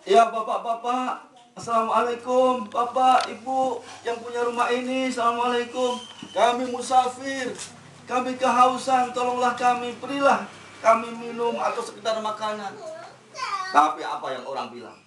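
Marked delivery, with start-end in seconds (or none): 1.6-12.8 lightly higher, a hint of pleading; pleading traveller. Musafir begging at a door. (musafir memohon air, sedikit memelas)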